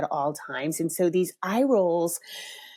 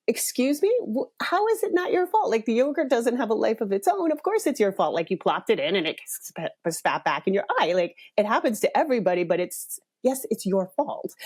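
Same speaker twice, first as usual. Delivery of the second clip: exasperated disbelief; 3 semitones higher than usual. Retold or imitated. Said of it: "And I was like".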